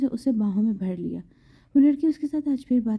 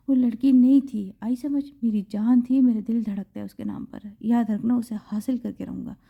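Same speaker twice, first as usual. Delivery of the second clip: fierce, louder angry outburst; angry shout; 4 dB louder than usual. Acted. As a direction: yell it in a jealous rage. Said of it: "وہ غصے میں چلایا".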